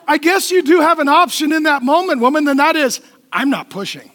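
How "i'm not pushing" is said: stubborn refusal. Acted. Voices stubborn mother refusing to push.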